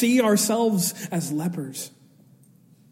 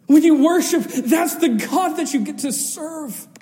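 higher, louder preacher's cry; fervent preaching; 8 semitones higher, 5 dB louder than usual. Acted. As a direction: proclaim it with fire. Climax of the sermon.

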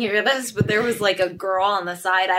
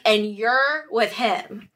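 slow, drawn-out imitation of a rude remark; really rude; much slower than usual. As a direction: mimic her rudeness, leaning on each word. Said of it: "really rude".

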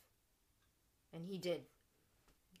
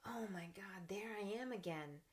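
hushed aside; 6 dB quieter than usual. Retold or imitated. Catching herself in old habit.

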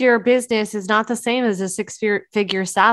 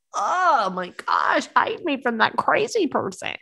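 slow, higher mock panic, half joking; mock alarm; 4 semitones higher than usual. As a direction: pretend to shrink away from someone. Mock alarm at pushy stranger.

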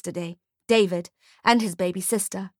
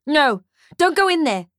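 1 urgent shout; 6 semitones higher, 4 dB louder than usual. A narrator's reading. Ferdy stops woman entering flames.

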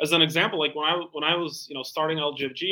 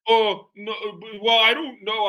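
flustered backpedaling; 5 semitones higher, 6 dB louder, much slower than usual. Retold or imitated. Prospect flustered by the joke.

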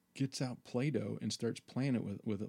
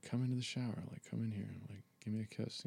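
sensual; 5 dB quieter, faster than usual. Retold or imitated. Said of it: "thinking all, uh, sensual".

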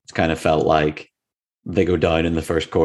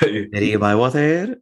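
slow Spanish accent on the name; 4 semitones higher, slower than usual. Shown as a demonstration. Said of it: "keep your Spanish accent for reading Terry".

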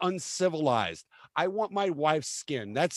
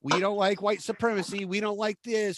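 mocking prissy libertarians; 3 semitones higher than usual. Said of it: "fluttering around like little butterflies".

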